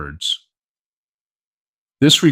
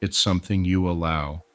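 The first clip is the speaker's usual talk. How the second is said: calm guided-meditation delivery with long pauses; hypnosis induction. Acted. Hypnotist to listener settling down to relax, soothing guided hypnosis. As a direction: ease them into rest, phrase by unhurried phrase.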